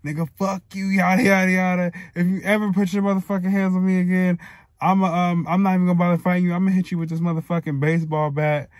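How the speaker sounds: mildly heated replay of a furious text; cussing him out. Retold or imitated. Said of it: "cussing him out through message and shit".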